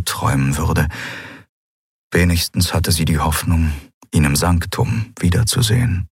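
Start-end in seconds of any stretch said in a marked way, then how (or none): none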